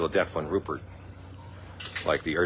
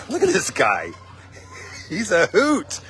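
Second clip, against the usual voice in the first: cooing at a dog; 10 semitones higher, 3 dB louder than usual. Real, not acted.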